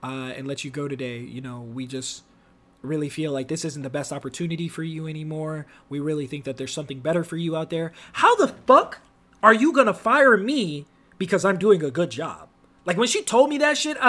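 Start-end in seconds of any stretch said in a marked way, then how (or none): 0.0-7.9 corporate HR voice. Retold or imitated. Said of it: "they're like".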